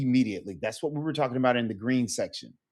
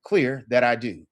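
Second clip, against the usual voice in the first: slow literal; 2 semitones lower, 4 dB louder than usual. Shown as a demonstration. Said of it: "look at it from a word situation".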